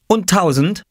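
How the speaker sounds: put-on high, bright little boy asking about a bigger price; a small boy pushing his luck; eager child voice. Oskar to the farmer, a high eager child voice.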